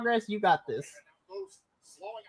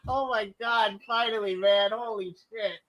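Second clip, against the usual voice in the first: shaky sigh; 3 semitones higher, 6 dB quieter than usual. Real, not acted. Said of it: "I'm trying not to cry on stream".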